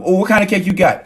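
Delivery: mock gushing curiosity; eager interest. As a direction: pounce on the happy topic with delight. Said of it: "There'll be something like".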